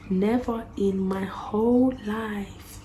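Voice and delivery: slow, drawn-out outrage; indignant. Retold or imitated. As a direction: stretch each word in disbelief.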